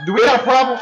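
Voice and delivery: put-on tough-guy Brooklyn accent; squaring up in Brooklyn style. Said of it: "I was using a Brooklyn accent".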